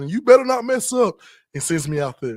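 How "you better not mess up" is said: put-on furious scream, higher pitched. Retelling a coach grabbing him before a game: imitating a coach screaming. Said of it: "screaming to the top of his lungs".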